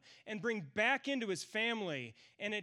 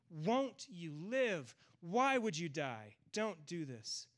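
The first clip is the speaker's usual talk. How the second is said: grieving father; 2 semitones lower, slower than usual. Retold or imitated. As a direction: plead gently like a grieving parent. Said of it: "read it with a voice full of grief".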